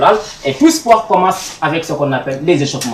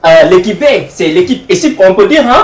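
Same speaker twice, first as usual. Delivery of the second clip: hyped host call; 5 semitones higher, 7 dB louder than usual. Real, not acted. Host hypes crowd for applause.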